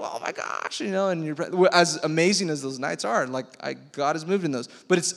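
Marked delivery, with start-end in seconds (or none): 0.0-0.8 mock gasp. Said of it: "and you're like".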